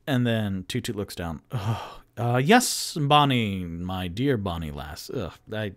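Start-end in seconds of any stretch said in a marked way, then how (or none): 1.5-5.1 imitating Volo. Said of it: "Volo said that".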